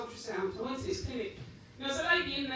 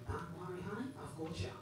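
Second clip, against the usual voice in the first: hushed, lower mock reassurance; soft reassurance; 4 semitones lower, 11 dB quieter than usual. Receptionist hushing the embarrassed patient, soft reassurance. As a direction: soothe him quietly, like a kind nurse. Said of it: "And she went".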